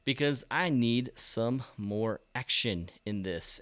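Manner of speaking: slow, flat early-morning talk; slow monotone. Real, not acted. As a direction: drag the words out, sleepy. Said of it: "monotone voice".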